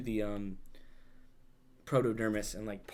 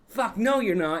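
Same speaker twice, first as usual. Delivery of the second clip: high, loud yelled refusal; hero's shout; 9 semitones higher, 9 dB louder than usual. Retold or imitated. Hero yelling at the villain as he attacks, high and loud. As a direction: yell it up high, all defiance.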